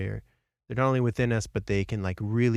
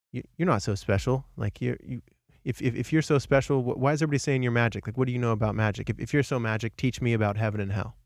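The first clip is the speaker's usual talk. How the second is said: quick, slightly raised mock challenge; challenging soldier; 2 semitones higher than usual. Drunk soldier confronts a meditating boy, challenging. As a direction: sneer lightly at the so-called magic boy.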